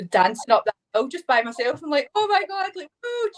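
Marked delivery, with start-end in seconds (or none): 2.1-3.3 high, bursting "Oh my God, woo"; euphoric whoop. Retold or imitated. Reliving dancing up the hill alone, euphoric whoop. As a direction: let the joy spill out in a whoop. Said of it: "then feeling euphoric".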